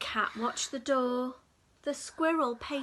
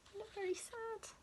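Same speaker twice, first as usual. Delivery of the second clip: pitying; 8 semitones higher, 12 dB quieter, faster than usual. Real, not acted. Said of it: "Oh dear, look".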